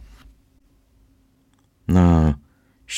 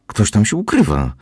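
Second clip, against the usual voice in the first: frightened cry; 6 semitones higher than usual. Acted. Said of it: "Raptem krzyknęła przestraszona".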